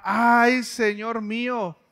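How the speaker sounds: a startled, pleading cry; alarmed cry of a servant; frightened plea. Retold or imitated. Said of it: "una expresión así como de susto, de súplica".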